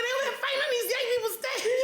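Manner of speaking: high, laughing through the words; laughing retelling. Retold or imitated. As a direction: crack up while quoting yourself. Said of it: "I said".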